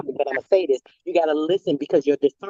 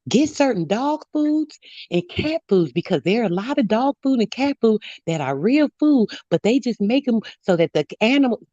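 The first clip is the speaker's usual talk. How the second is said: lightly imitated old lady with swooping higher pitch; sweet old lady; 5 semitones higher than usual. Old lady passing on her trucker son's warning, lightly imitated. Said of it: "She was a sweet little old lady too".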